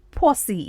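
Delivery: "Posse" said as "PAW-see"; pronunciation model. Shown as a demonstration. Teacher introducing a slang word, clear "PAW-see". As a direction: say "Posse" clearly, stressed on the first syllable. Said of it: "That word is pronounced as posse".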